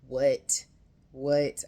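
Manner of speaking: as if you can't believe the line you just read; stunned what. Real, not acted. Telling viewers the moment that shocked her, loud disbelief. Reacting to "will you be my mommy.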